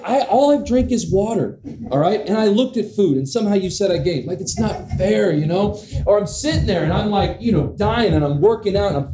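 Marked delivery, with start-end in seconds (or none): 0.0-4.3 mock indignation. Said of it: "You're like".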